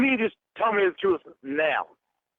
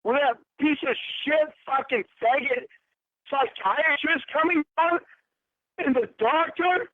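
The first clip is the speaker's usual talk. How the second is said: raised, furious accusing; higher, furious rant at a lying partner; angry; 4 semitones higher than usual. Real, not acted. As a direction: hurl the accusations at her, pitch up.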